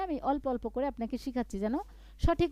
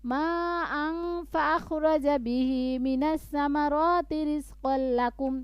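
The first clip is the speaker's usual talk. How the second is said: resuming after the stop; much slower than usual. Shown as a demonstration. Teacher shows resuming from the stop. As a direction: pick up again from ماء. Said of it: "থামলেন, আবার বলবেন".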